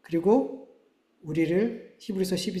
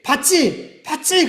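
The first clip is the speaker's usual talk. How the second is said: pressing "did you see?" louder and higher each time; insistent rising call; 8 semitones higher, 8 dB louder, much slower than usual. Acted. God pressing his people, rising insistent call. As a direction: demand they admit what they saw.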